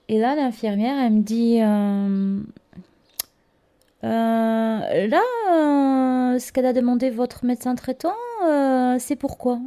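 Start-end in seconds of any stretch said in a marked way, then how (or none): 4.0-9.6 puzzled nurse. Retold or imitated. Nurse questioning the prescription.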